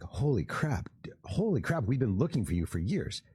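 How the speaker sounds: high, breathless mock whisper of shock; excited disbelief. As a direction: whisper it as if stunned by the news. Relatives react to found baby.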